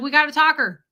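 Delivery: high, loud mock alarm; excited reaction. Retold startled reaction to rant.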